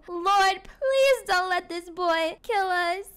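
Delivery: slow, drawn-out plea; pleading prayer. Acted. Nervous parent praying as the learner sets off, pleading. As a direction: beg heaven for mercy, hammed-up. Mock prayer before son drives.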